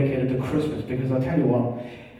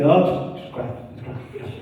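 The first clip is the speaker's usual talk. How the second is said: mumbled churchgoer; faster than usual. Retold or imitated. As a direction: mumble it away like a caught-out parishioner. Mass goer answers interviewer.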